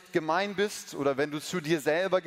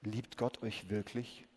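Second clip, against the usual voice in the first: much softer, low, slow serpent voice; sly serpent; 7 semitones lower, 10 dB quieter, slower than usual. Acted. Snake tempting Eve, slow hushed hiss-like voice. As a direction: tempt her quietly like a snake. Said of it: "fragte die Schlange".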